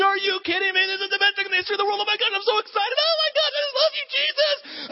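high, fast gushing excitement; overjoyed disciple. Retold or imitated. Disciples seeing the risen Jesus, high gushing joy. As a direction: gush with disbelieving joy.

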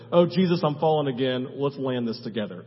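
mild mock composure. Dreamer praying to Jesus mid-fall, understated calm. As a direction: talk yourself calmly down through a fall.

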